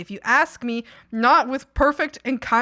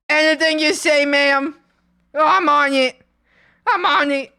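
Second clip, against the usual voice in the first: high, loud, chirpy eager helper; bright yes-ma'am enthusiasm; hammed-up keen employee; eager to please; 5 semitones higher, 6 dB louder than usual. Eager reply to nice manager.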